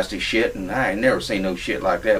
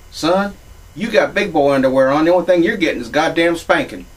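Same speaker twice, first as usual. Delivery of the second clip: louder, higher telling-off; retold threat of a spanking, voice raised; mock scolding mother; 6 semitones higher, 4 dB louder than usual. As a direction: scold like a stern mommy. Mommy scolds him in the story.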